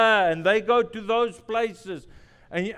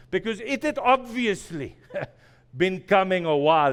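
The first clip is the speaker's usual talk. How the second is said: laughing; 3 dB louder than usual. Real, not acted. Laughs while telling lesson.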